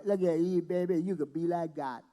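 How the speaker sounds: a lightly voiced smooth devil; sly devil. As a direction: sweet-talk her like a snake. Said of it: "That's what the devil said".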